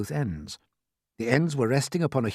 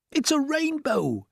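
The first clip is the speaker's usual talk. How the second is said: slow, high amazed voice; wonder; slower than usual. A narrator's reading. Everyone seeing the rainbow, amazed. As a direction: breathe it in awe. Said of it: "everyone said at once".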